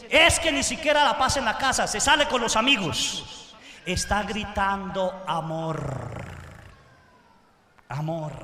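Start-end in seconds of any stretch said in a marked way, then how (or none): 0.1-3.5 complaining. Retold or imitated. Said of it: "muchos de ustedes dicen".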